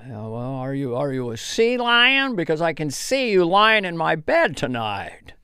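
lightly voiced Jimmy Stewart; Jimmy Stewart impression. Jimmy Stewart hitting on the girl at the bar, lightly voiced. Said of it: "Jimmy Stewart".

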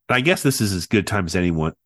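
stuffy nose from a cold; talking through a head cold; nasal voice. Real, not acted. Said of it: "if you're noticing that I sound a little nasally".

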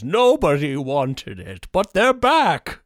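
slow, put-on villain voice, rising at the end; mock Bane. Bane taunting Batman about widgets. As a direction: drag it out like a gloating villain. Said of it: "And Bane says".

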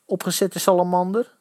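pushy, high-pitched bullying; threatening. A narrator's reading. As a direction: warn him off aggressively. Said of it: "dreigde een potig uitziende kerel".

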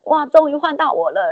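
finally my turn, let it burst out; excited. Retold or imitated. Daughter-in-law finally gets to cook, excited. Finally allowed to roast peanuts.

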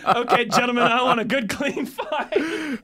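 boxing announcer calling the fighters; fighting game announcer. Retold or imitated. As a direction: ring announcer, laughing through it. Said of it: "in my best announcer voice".

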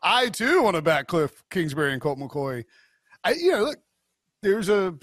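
exaggerated sarcastic echo, pitch swooping up early; mock sarcastic. Shown as a demonstration. Co-host showing how his agreement came off, mock sarcastic. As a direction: overplay the agreement as if not meaning it. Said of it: "not saying that sarcastically ... just came off".

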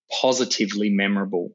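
"positively" set apart after a brief pause, carefully spoken; stress on positively. Real, not acted. Coach advising young founders on standing out, emphasis on "positively". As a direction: lean on the word "positively". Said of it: "I really emphasize the word positively".

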